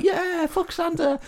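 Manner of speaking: high, slow mock-American yell; hammed-up American cheering the kill. Americans mocking Santa's downing, high and slow. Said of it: "And the American's like".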